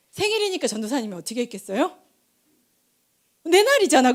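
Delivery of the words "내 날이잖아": mock yell, high and loud; retold yelling. Preacher retelling her birthday morning outburst, mock yelling. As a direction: protest loudly as if retelling your own outburst. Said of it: "아파트 동네가 다 떠나가도록 소리를 질렀어요".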